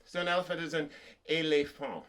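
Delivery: éléphant said the French way, ay-lay-fahn; French pronunciation. Shown as a demonstration. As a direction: give éléphant a French accent. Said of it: "but with a fancy accent".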